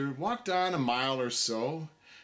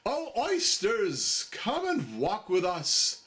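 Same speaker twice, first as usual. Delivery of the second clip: coaxing plea; 5 semitones higher, slower than usual. Acted. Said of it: "the walrus did beseech".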